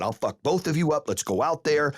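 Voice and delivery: retold losing it. Coach challenges rival and his boys, mildly heated retold anger. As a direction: retell a fight challenge with some heat. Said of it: "lost my shit".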